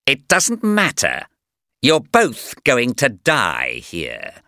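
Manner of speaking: villain. Acted. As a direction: draw out the threat like a gloating villain. Villain threatens heroes.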